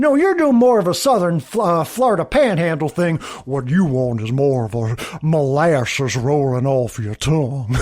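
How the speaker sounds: a touch of theatrical coaching; Andy coaching. Retold or imitated. Andy correcting Pam's accent, lightly hammed-up. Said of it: "Andy's, like, coaching of her".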